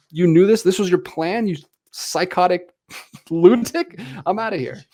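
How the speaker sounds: hammed-up indignation with a slight laugh; mock outrage. Podcaster acts out the assistant quitting on the mad doctor, mock outrage.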